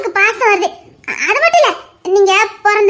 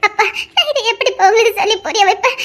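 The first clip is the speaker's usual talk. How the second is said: tearful laugh. Acted. Daughter pleading, half crying.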